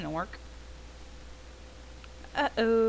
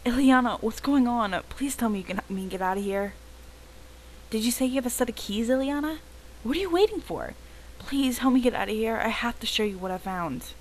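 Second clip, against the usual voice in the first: higher, urgent pleas from inside the trunk; trapped and pleading; 6 semitones higher than usual. Acted. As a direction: beg Ileana to get you out. Trapped Madison begs for help.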